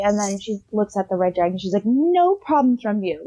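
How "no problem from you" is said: slow, stern, lightly scolding; scolding like a child. Retold or imitated. Grandmother scolding the red dragon, slow and stern. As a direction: tell him off like a naughty kid. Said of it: "scolding him like a child".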